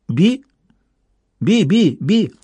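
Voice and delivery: high, squeaky eerie bird voice; a tiny inhuman creature chirping a name; жуткий птичий голосок. A narrator's reading. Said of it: "Жуткий голосок раздался снова". (тонкий писклявый птичий голос)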